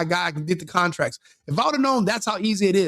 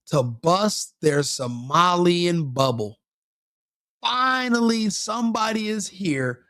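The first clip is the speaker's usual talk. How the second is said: imagined relieved cop; slower than usual. Retold or imitated. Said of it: "He's like".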